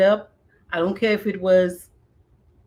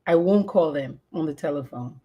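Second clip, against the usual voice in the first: dramatic memoir reading. Acted. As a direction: read it like a heavy confession. Reads her memoir prologue aloud.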